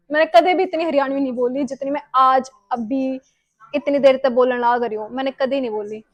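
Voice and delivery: Haryanvi, said at an easier pitch; Haryanvi dialect. Real, not acted. Correcting herself after slipping into Hindi, in Haryanvi dialect. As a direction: switch the line into everyday Haryanvi. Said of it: "भूल जाती हूँ हरियाणवी बोलने".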